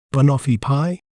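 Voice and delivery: "banoffee pie" said clearly, stress on "noff"; careful teacher's "banoffee pie", each sound clear; slow clear dictionary pronunciation. Shown as a demonstration. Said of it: "We may pronounce it as".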